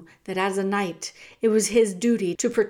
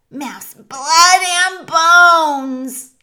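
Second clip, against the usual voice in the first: very loud, slow, high chant; hungry rat pack chanting; clamouring rats; 8 semitones higher, 15 dB louder, much slower than usual. A narrator's reading. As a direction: draw out the bloodthirsty rat cry. Rats clamour for mouse blood.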